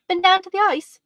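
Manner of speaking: put-on eager boy asking right away; eagerly. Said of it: "said the boy eagerly".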